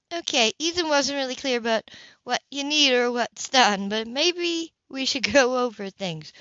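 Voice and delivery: an easygoing neighbour offering help; Grace, friendly. Acted. Narrator voices Grace.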